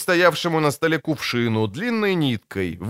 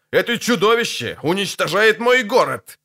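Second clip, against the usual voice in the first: high-pitched wail of dismay; anguished howl; 7 semitones higher than usual. A narrator's reading. Mayor watching a monster destroy his town, high howl of dismay. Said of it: "взвыл Невилл".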